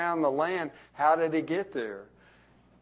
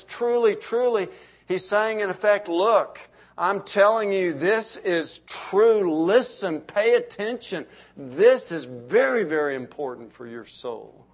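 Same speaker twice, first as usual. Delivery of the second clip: urgent appeal; 4 semitones higher, 4 dB louder than usual. Acted. Preacher paraphrasing Jesus urgently.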